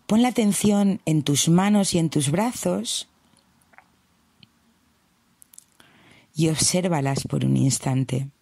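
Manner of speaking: gentle guided-meditation voice with long pauses. Acted. Meditation host settling listeners into a comfortable position, guiding unhurriedly. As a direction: ease the listener in, leaving long silences.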